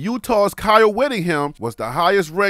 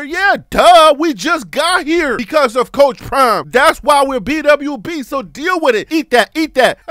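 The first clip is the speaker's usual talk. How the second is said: taunting shout; 4 semitones higher, 3 dB louder than usual. Real, not acted. Mocking haters, shouting.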